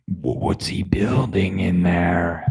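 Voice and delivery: unvoiced spooky whisper; whispered quote from a singer. Streamer quotes a singer in an unvoiced whisper. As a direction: whisper it like a creepy song line. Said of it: "What's that guy's name?".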